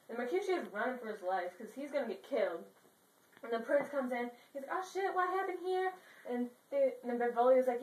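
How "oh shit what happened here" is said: mock shock. Prince finds bodies.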